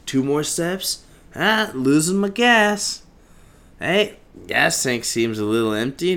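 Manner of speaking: high, loud, gasping complaint; out of breath. Retold or imitated. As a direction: pant it out as the legs give. Acts running out of breath.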